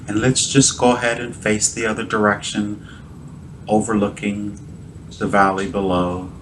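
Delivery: guided visualisation. Real, not acted. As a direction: gently guide a listener through an imagined scene.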